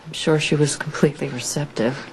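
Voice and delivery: sarcastic. Acted. Doubting her talk with Monica won him over, sarcastic. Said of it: "Don't you be sarcastic with me".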